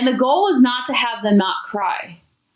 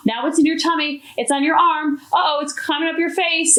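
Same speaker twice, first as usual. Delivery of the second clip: higher, teasing and bright-eyed, like a game; playful parent voice; 6 semitones higher than usual. Acted. Parent teasing a crying child into smiling, playful and higher. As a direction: coax a giggle out of a child.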